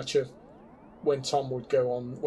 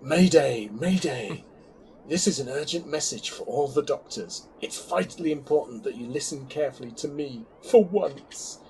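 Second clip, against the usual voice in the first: dramatic reading; 4 dB louder than usual. Pretend. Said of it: "Dramatic reading now".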